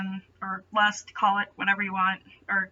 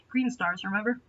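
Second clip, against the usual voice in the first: usual speaking voice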